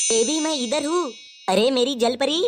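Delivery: drawn-out, lovey-dovey call; cooing lover. Acted. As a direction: call out slowly to a sweetheart. Lover answers partner looking for him.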